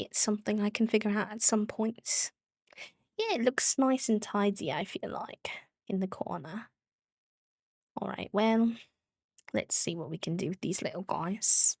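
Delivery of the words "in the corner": whispered. Real, not acted. Trailing aside.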